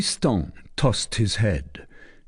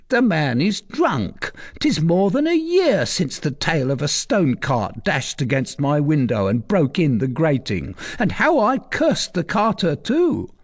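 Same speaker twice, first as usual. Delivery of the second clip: much higher, mocking scoff; forced grin; 7 semitones higher than usual. Recluse brushing off the archer, forced amusement. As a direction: laugh it off despite the fear. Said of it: "she began to grin".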